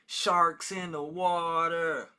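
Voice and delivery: booming, slow movie trailer voice; high, loud and drawn out like a trailer narrator; dramatic trailer voice. Retold or imitated. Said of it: "watches something on YouTube".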